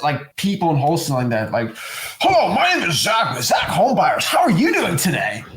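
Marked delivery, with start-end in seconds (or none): 2.2-5.4 fake salesman voice. Mocking a fake salesy phone opener.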